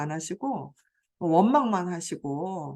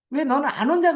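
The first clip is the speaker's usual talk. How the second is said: irritated mother-in-law; 5 semitones higher, 5 dB louder, faster than usual. Retold or imitated. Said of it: "또 짜증 내시고".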